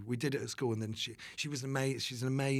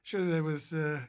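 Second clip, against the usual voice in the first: raised, louder mock outrage; mock indignation; 5 semitones higher, 4 dB louder than usual. Real, not acted. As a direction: protest playfully. Mock indignation about casting.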